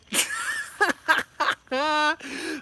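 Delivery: long, high burst of laughter; drawn-out high giggle. Real, not acted. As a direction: crack up in a high cackle. Tells of toddler's confession.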